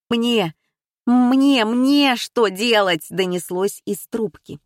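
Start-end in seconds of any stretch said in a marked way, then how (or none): 0.1-3.1 loud slow frightened stutter; terrified plea over the phone; panicked stammer. Acted. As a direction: stammer in panic, louder each time.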